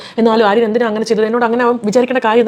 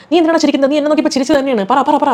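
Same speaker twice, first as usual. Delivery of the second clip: angry confrontation; 3 semitones higher than usual. Retold or imitated. Abhi demanding why Aryan laughed at him, raised angry voice. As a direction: push him hard to explain, sharp and higher.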